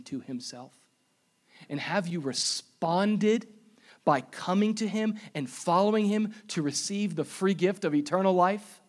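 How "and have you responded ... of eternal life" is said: rising intensity. Real, not acted. Preacher building to climax.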